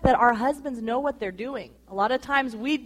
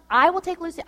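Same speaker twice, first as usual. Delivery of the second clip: put-on higher, insistent offer to take the baby; adamant insisting; 5 semitones higher, faster than usual. Wife insisting to husband she'll take the baby, adamant. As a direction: press the point, eager and firm. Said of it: "I was so adamant".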